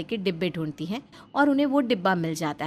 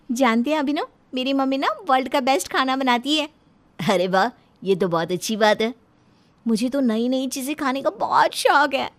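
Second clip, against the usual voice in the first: put-on higher, bubbly young wife; excited new bride; 4 semitones higher than usual. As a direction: gush about her mother's cooking. Divya excitedly tells husband. (उत्साहित नई दुल्हन की चहकती आवाज़)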